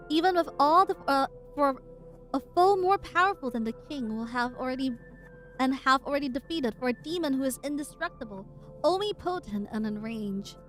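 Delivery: measured dramatic reading; story narration. Acted. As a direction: read the lines like a narrator. Reading the comic aloud.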